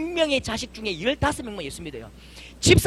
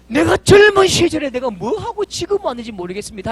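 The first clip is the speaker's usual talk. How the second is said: put-on lamenting old man; 4 semitones higher, 8 dB louder than usual. Old man weeping, confessing to pastor.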